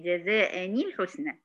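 جزاء الحسنى slowish, joined as "jazā'ani-l-ḥusnā"; linked with kasra. Shown as a demonstration. Teacher recaps what was done, measured linked form. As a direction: link جزاء الحسنى through a clear ni. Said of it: "احنا كده عملنا ايه".

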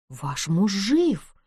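медленно и мягко; скажи очень медленно, утешая; утешительно. Acted. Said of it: "утешительно произнесла Нэнси". (Нэнси утешает вдову: медленно и мягко)

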